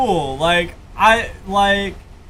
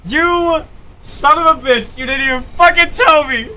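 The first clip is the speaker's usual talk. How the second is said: mock outrage; 5 semitones higher than usual. Real, not acted.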